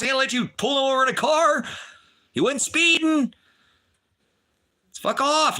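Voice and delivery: furious shout. Real, not acted. To the police who pulled them over, a furious shout.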